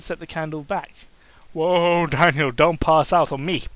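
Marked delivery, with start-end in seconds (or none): 1.5-3.6 urgent call. Acted. Cain calling to fainting Daniel.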